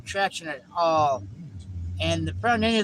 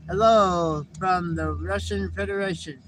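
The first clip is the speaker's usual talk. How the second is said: slow, silly greeting in a put-on voice; playful put-on voice. Dad greets baby girl in a silly voice. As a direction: play a funny visitor for the little girl.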